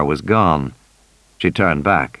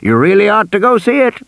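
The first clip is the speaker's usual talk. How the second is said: a hint of an eager old tycoon, higher; chatty old man pitching his park, pitched up; lightly voiced old man; 9 semitones higher than usual. A narrator's reading. Old Hammond pitching his park to Grant, eager and higher.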